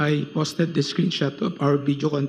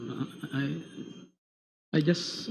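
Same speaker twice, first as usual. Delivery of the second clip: fighting back tears, barely audible; real tears held back; choked up; 8 dB quieter than usual. Real, not acted. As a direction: voice catching, almost crying. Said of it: "You seem to be crying".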